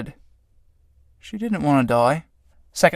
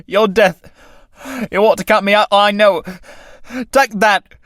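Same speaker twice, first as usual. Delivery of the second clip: struggling with death; 3 semitones higher than usual. Acted. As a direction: push back against the strangling. Tramp fighting off death.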